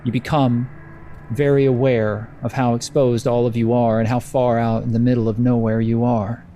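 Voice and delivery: measured narration with suspenseful pauses; lightly dramatic storyteller delivery; game master's scene setting. Acted. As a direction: let the storm creep in, phrase by phrase.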